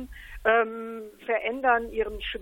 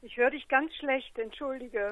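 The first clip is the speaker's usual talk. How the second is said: thin voice over a phone line; speaking down a telephone; 6 dB quieter than usual. Real, not acted. Am Telefon. (Stimme am Telefon)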